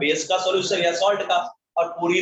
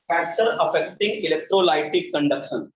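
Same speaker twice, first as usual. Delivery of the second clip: very slow, drawn-out heading; slow dictation; much slower than usual. Real, not acted. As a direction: stretch each word out for note-takers. Teacher dictates the topic heading. (धीरे-धीरे शीर्षक लिखवाते हुए)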